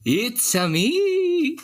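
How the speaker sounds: high, slow, hammed-up Italian accent; cartoon Italian voice. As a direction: do a goofy cartoon Italian plumber line. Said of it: "introduce yourself".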